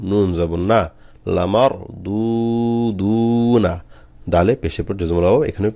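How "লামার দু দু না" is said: "লামার" short, both "দু" held long, "না" short; unhurried one-alif stretch. Shown as a demonstration. Teacher warning learners not to rush, long-held "দু দু". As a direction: draw out each u in "দু দু", without rushing. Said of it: "এক আলিফ করে টান হবে".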